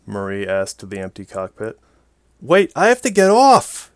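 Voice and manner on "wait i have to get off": high, loud panicked protest. A narrator's reading. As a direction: cry out to be let off. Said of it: "she protested".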